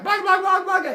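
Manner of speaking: loud, high babbling little monsters; monster gibberish. Acted. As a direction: jabber back like cartoon monsters, loud and high. Monsters jabber back at hero.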